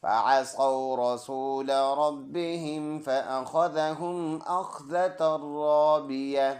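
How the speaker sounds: slow, drawn-out verse recitation; full verse recitation. Shown as a demonstration. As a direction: demonstrate the whole verse as it should be recited. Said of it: "full आयत ऐसे पढ़ेंगे". (पूरी आयत तिलावत के अंदाज़ में)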